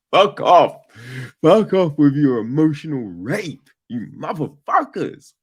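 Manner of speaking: mock outburst. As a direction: shout it at the screen, half laughing.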